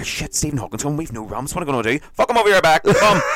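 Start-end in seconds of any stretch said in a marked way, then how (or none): 2.1-3.2 high, loud bossy shout; hammed-up urgent command; mock barked order. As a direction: shout instructions to a helper. Acts out carrying guest upstairs.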